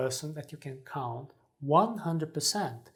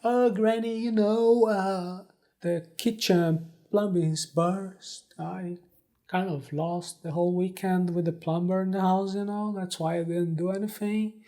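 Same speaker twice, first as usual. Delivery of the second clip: whiny excuse to granny; 2 semitones higher than usual. Pretend. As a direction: plead like a grandchild making excuses. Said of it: "call your nice grandmother and say".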